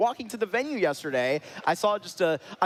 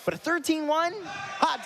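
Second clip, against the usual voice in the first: surprised; 11 semitones higher than usual. Real, not acted. Caster stunned by lopsided score.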